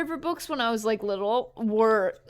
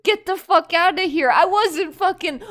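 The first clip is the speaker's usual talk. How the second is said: mock outrage; 6 semitones higher, 8 dB louder than usual. Mock outrage at being called smart.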